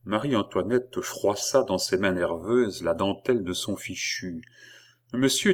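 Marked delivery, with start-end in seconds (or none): 5.1-5.5 higher-pitched, holding back sobs; a touch of held-back tears; close to sobs. A narrator's reading. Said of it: "d'une voix dans laquelle un observateur plus intelligent eût deviné des sanglots prêts à s'exhaler". (au bord des sanglots, retenu)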